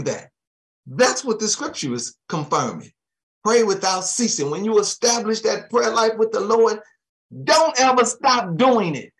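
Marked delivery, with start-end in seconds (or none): 3.4-9.1 preaching exhortation. Real, not acted. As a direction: push it up hard to the congregation.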